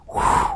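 long breathy blown-out whew; relieved exhale. Shown as a demonstration. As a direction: let all the tension out in one breath. Imitates anger leaving the body.

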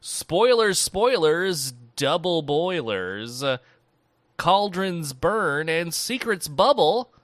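loud, drawn-out spell casting; slow, booming mock-witch chant; mock incantation. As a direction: invoke a protective rite with hammed-up ceremony.

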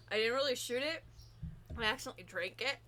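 queasy, about to throw up; nauseous. Real, not acted. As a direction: speak through real nausea. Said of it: "Now I think I might throw up".

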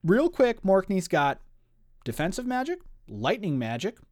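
high, hyped-up fanboy rant; real excitement. Real, not acted. Host listing the villain's powers to co-host, wildly excited. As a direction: get carried away, pitch leaping up. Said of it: "Sorry, I'm getting excited".

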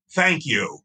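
mild mock of a curt, patronizing "Thank you."; condescending thank you. Jerry finally answering the gushing fan, mildly mocked as condescending. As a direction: say "Thank you." flatly, as if granting a favour, lightly imitated. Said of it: "kinda like a condescending, patronizing "thank you".

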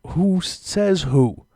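high, loud indignant comeback; indignant challenge. Acted. Fed-up customer answering the smug cashier, indignant challenge. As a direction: challenge it loudly, pitch jumping up.

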